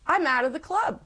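sudden high pitched wail of despair; exasperated cry. Retold or imitated. Divorcing wife telling the interviewer her fear, high and exasperated. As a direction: throw the line up high, half laughing at yourself.

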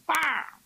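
sharp high mock "pah" of a pan hitting a head; pan smack. Preacher mimics the wife's frying pan hitting her husband, sharp mock smack. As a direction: slap the sound out like a frying pan blow.

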